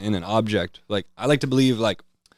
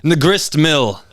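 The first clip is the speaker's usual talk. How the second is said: put-on higher, louder old-timey grief; mock lament; 9 semitones higher, 4 dB louder than usual. Old mill folk voiced, hammed-up grieving higher and louder. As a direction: ham up the village mourner. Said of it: "People used to be like".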